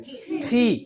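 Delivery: थी with a soft aspirated T, not टी. Shown as a demonstration. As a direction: say थी with a soft breathy T, not the hard टी. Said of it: "टी नहीं है बल्कि थी है". (टी नहीं, थी)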